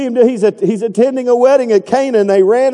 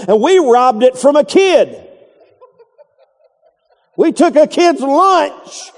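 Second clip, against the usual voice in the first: laughing confession; 5 semitones higher, slower than usual. Retold or imitated.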